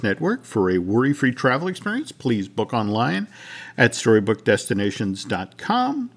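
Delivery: smooth sponsor read. Acted. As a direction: read the sponsor line cleanly.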